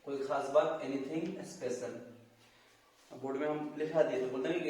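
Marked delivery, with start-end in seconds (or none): 0.8-1.9 stretched out very slowly; slow teaching repeat. Shown as a demonstration. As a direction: drag each word for students to copy. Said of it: "teacher repeats phrase slowly". (बहुत धीमे, सिखाने के अंदाज़ में)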